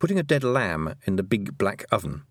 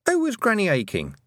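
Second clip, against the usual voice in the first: questioning voice; 11 semitones higher than usual. A narrator's reading. A voice interrupts the story.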